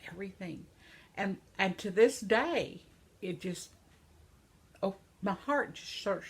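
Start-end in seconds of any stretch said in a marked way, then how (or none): 0.1-0.6 breathless whispered awe; hushed, reverent whisper; awed whisper. Real, not acted. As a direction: whisper it in wonder.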